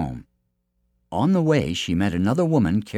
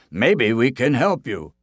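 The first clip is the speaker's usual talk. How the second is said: slightly raised, unhurried offer; higher storybook helper; helpful villagers; 4 semitones higher, 3 dB louder than usual. Acted. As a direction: offer help as a lightly voiced villager. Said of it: "they said".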